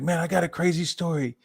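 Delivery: high, mocking impression of the friend; mocking the guy. Friend at the wedding blurting out the story, mocking high voice. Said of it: "and he's like".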